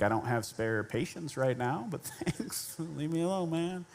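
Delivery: muttered, mostly breath, annoyed; pissy inner voice. Retold or imitated. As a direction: internal grumble at the stranger. Retells his irritated inner reply.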